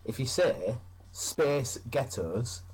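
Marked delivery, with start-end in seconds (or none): 1.1-2.6 slow, drawn-out American "Space Ghettos"; American drawl on "Space Ghettos"; American accent. Shown as a demonstration. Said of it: "in an American accent".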